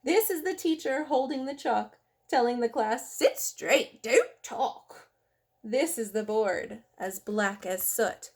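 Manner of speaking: lively, sing-song picture-book reading; reading to children. Acted. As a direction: read the rhymes aloud to little kids.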